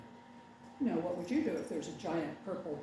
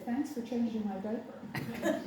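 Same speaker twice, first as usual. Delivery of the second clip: mock baby thanks; 3 semitones higher than usual. Imagined baby thanking parent.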